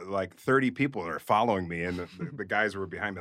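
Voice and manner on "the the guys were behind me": usual speaking voice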